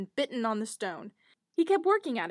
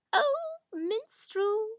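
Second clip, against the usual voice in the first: slow eager little hare; 10 semitones higher, much slower than usual. Acted. Hare voiced in fairy tale.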